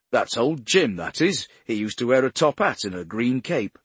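shouting. Pretend. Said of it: "make someone jump and shout".

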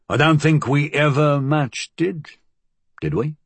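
lightly voiced dialect-speaking old associate; uneasy challenge in working-class dialect; a hint of a streetwise henchman; Flood's rough dialect. Voices Flood telling old story.

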